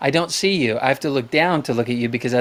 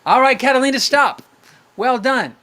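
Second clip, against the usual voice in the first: calling out to stop; 9 semitones higher, 3 dB louder than usual. Real, not acted. Calling end of sister's game.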